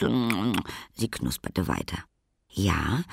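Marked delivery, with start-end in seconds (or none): none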